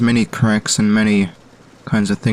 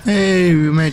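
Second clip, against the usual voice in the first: excited shout; 8 semitones higher, 3 dB louder than usual. Real, not acted. Excited at making a jump.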